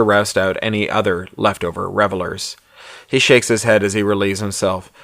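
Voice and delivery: measured audiobook-style narration; story narration. A narrator's reading. Author reads his novella aloud to listeners, story narration.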